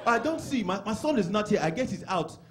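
Nigerian father musing aloud; imitated dad. Dad wondering where his son is, mock pondering. Voices dad's imagined reasoning.

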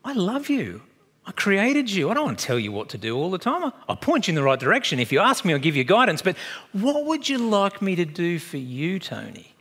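lightly voiced Jesus, loving and patient. Jesus voiced speaking to believer.

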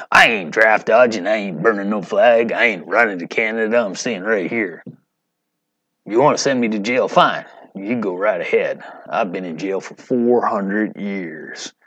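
a lightly put-on Muhammad Ali accent, defiant; bad Muhammad Ali accent. Teacher reads the boxer's quote to class in a mild Muhammad Ali accent. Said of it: "That's the worst Muhammad Ali accent you'll ever hear".

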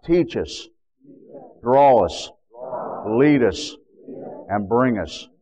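steady declaring prayer, rising on the rebuke of Satan; earnest pastoral prayer; fervent prayer. Acted. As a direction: pray it firmly, as a proclamation.

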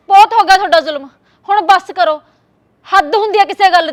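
angry outburst. Acted. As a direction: press the protest home. Daughter-in-law snaps back. (ਨੂੰਹ ਦਾ ਸੱਸ ਅੱਗੇ ਗੁੱਸਾ)

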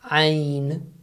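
"Ain" voiced from a squeezed throat; Arabic ain. Shown as a demonstration. Teacher shows the ain sound to English speakers. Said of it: "We don't have such thing in English".

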